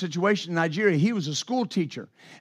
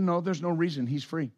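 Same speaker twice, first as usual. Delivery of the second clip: calm quiet; 2 semitones lower, 6 dB quieter than usual. Retold or imitated. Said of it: "Lawrence was very calm".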